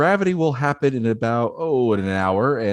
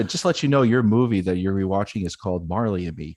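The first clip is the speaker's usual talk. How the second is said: lower, softer deadpan theater intro; mock announcer Dave; 4 semitones lower, 4 dB quieter than usual. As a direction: introduce the movie dryly and solemnly. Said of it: "I could see you going".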